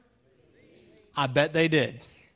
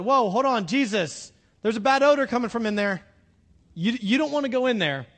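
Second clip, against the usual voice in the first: acted urgent warning, raised and louder; mild alarmed protest; 3 semitones higher, 4 dB louder than usual. Woman warns Jesus away from the tomb, mildly alarmed protest. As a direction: act out talking someone out of it.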